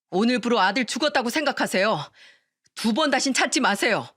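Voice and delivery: a heated family argument; acted family quarrel. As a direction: play the quarrel out, each side pushing back.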